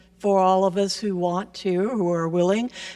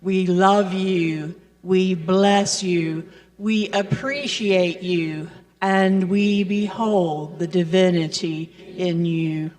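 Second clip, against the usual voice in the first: recited blessing; slower than usual. Real, not acted. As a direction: recite it together, deliberately, like a benediction. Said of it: "So let's do that now".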